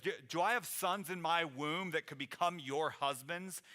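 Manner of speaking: mildly harsh, sharp rhetorical question; snarky sarcasm. Acted. Naomi challenging the two girls, mildly sarcastic and sharp. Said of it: "gets a little bit snarky, a little sarcastic".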